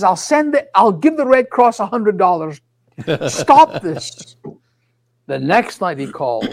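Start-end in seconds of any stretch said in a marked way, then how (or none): 0.0-4.4 higher, louder, fed up with the calls; exasperated brush-off. Retold or imitated. To his father on the phone, retold, half-mock exasperated. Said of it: "I says".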